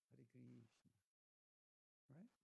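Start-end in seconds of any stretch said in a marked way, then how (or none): 0.1-0.6 Hare Krishna with a long "ee" in Krishna; lightly put-on Spanish-Russian accent. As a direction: imitate Russian and Spanish devotees' Hare Kreeshna. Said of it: "very similarly".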